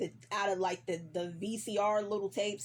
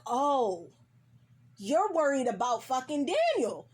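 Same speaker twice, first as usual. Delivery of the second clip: mock-indignant, pitch swooping up on the second Oh; jealous anger; 3 semitones higher, 4 dB louder than usual. Lover finds out Louis is worried about Daniel, jealous anger. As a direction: act out jealous, sarcastic outrage, getting louder. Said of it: "So he's already angry. He's already jealous of Daniel".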